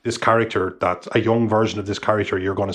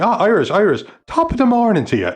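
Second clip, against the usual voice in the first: higher, louder imitation of a Turkish accent; 11 semitones higher, 5 dB louder than usual. Sweet seller in Turkey hailing the Irish tourist, Turkish accent. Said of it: "in a Turkish accent".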